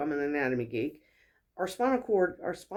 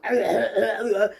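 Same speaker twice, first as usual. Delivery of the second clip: throat clearing with a laugh; 4 semitones higher, 5 dB louder than usual. Retold or imitated. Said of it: "and I'm cracking my voice".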